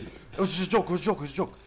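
high, loud squeaky pleading; high panicked backpedal. Real, not acted. Gamer squealing an excuse after getting shot.

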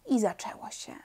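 hushed narrator whisper before the storm; whispered suspense. A narrator's reading. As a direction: breathe it out, no voice. Tension before the uproar.

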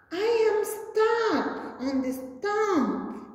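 high, distressed cry of a stuck puppy; a puppy stuck on gum crying for help; cried out. Acted. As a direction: call out for help, high and pleading. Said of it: "cried Rusty".

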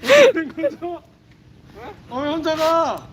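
loud slow surprised cry; sledding downhill. Real, not acted. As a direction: shout it in disbelief mid-ride. Sled run goes wrong.

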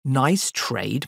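NICE TRADE thrown back with a questioning lift; scoffing echo. Acted. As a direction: echo NICE TRADE in mild scorn, ending upward. Master scornfully echoes the boy.

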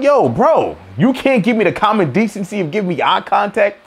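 confrontational retort; mild mock confrontation; calling him out. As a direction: call him out, a little over the top. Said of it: "it's like".

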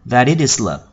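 "that it is love" run together as one phrase; linked sounds. Shown as a demonstration. Teacher repeating the linked lyric for learners, linked sounds. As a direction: join THAT-IT-IS smoothly before love. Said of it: "Chúng ta nối âm thành".

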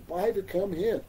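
a lightly voiced, innocent-sounding god; Krishna playing innocent. Krishna feigning innocence to the ladies, lightly voiced. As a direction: ask it straight-faced, feigning not to know. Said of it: "Krishna speaking like this".

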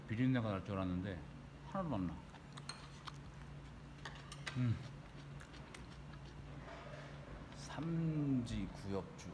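chewing between words; talking while chewing. Real, not acted. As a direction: mouth full of food. Seen 1: Chews before and during the words, takes more food at 4.0s.

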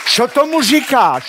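high, loud "Co tomu říkáš?" with laughter; mimicking wife, high and laughing; mock wife's question. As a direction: squeak out the wife's final question. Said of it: "Ta důležitá poslední věta".

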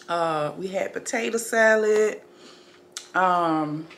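talking with mint in mouth; mouth full. Real, not acted. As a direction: speak around a mint in the mouth. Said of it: "I got mint in my mouth".

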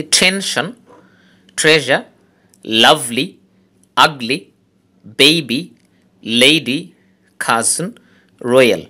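টেনশন, ট্রেজার, লাভলি, each stressed on its first syllable; stress on strong syllable. Shown as a demonstration. Teacher demonstrates two-syllable words from টেনশন to রয়্যাল, first syllable stressed. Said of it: "একটা syllable stress হবে".

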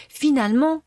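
crying out. A narrator's reading. Pinocchio refusing the medicine, crying out. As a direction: wail it as the sobs break. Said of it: "cria Pinocchio qui éclata en sanglots".

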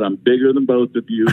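laughing through the boast; can't keep a straight face; grinning brag dissolving into laughs. Real, not acted.

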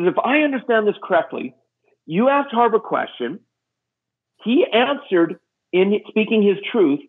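slow, measured retold reasoning; lightly acted patient scolding; pointed wifely lecture. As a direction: spell it out slowly, dropping at the end. Voices wife pointedly lecturing him.

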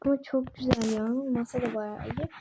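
talking while chewing gum; words round a wad of gum. Real, not acted. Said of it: "Benim sakız çiğnemem ortamda".

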